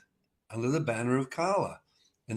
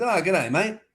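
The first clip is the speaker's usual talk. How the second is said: Aussie mate; 7 semitones higher, 5 dB louder than usual. Retold or imitated. Australian guitarist phones him.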